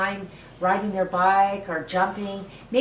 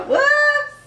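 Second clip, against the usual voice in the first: much higher, loud startled whoops; surprised whoops; 8 dB louder than usual. Real, not acted. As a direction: yelp at the slip. Apron mishap, exclaiming.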